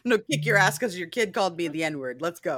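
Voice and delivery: playful call-out to fight, starting loud; laughing through a tough-talk threat; mock confrontation. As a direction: pretend to challenge another parent outside. Mock challenge to a parent.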